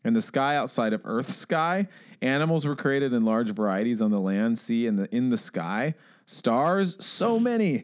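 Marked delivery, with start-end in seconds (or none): 6.3-7.8 awed. Pretend. Gushing over the stars.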